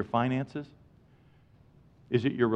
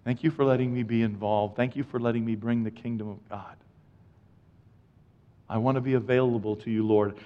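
softer, humble thank-you to God; quiet prayer; 2 semitones lower, 4 dB quieter than usual. Retold or imitated. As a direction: pray it gently. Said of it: "and I say".

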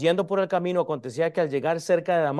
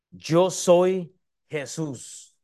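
Jesús; much slower than usual. Acted. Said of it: "Y él le dijo".

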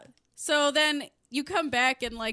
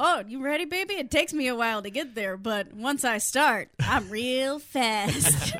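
sleazy come-on voice. Retold or imitated. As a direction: play the sleazy lover, slowing down. Voicing the guy's come-on.

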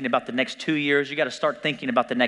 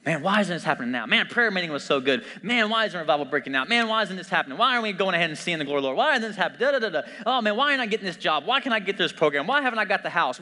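complaining, climbing higher as it goes; mock impatient whining; 5 semitones higher, faster than usual. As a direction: act out restless frustration, pushing faster. Impatient believer complaining to God.

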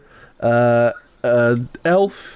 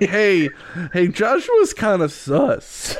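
mock accusation; 4 semitones higher, slower than usual. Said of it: "Seamus was like".

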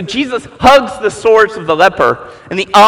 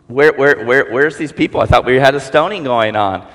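Jesus; 6 semitones lower than usual. Acted. Jesus voiced, lower.

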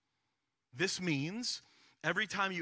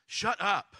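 punchy, higher and louder mock outburst; mock indignation; 4 semitones higher, 7 dB louder than usual. Listener reacting to a demanding reading, mock indignant. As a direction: blurt it as a mock protest.

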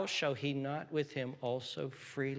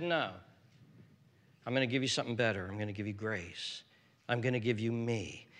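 gentle voice of God; faster than usual. Acted. God's answer voiced to Paul.

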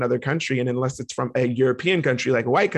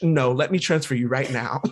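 deadpan agent line breaking into laughs; laughing through the line. Retold or imitated. Retelling the agent's fake reply, laughing. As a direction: say it crisply while laughing. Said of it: "In perfect English".

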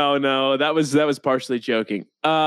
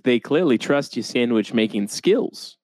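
put-on a light Boston accent. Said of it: "Are we talking in Boston accents now".

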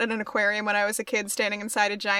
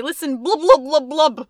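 shouting underwater; 5 dB louder than usual. Pretend. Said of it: "I could do a nice harmony".

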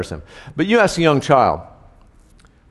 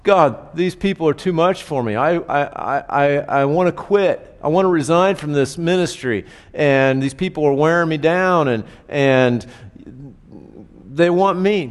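whining Moses; 3 semitones higher than usual. Retold or imitated. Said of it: "Moses then in turn whines to God".

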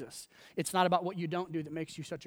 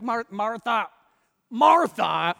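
raised, emphatic name-calling; imagined exclamation; 4 semitones higher, 8 dB louder, slower than usual. Acted. Preacher guessing how Jesus said it, loud and emphatic. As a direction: call her name out, louder the second time. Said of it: "I imagine how he said".

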